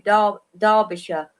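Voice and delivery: Derbyshire as DAH-bih-shuh; low, reduced ending on Derbyshire, DAH-bi-shuh; British pronunciation. Shown as a demonstration. English guest showing the local way, Derbyshire as DAH-bi-shuh. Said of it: "like you do".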